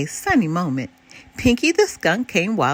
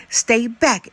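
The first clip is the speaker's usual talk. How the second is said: cried out; 3 semitones higher, 3 dB louder than usual. Acted. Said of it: "Elmore cried".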